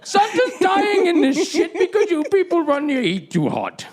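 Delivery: a lightly put-on Santa voice; jolly Santa, with a touch of an Indian accent. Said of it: "why is the voice like this".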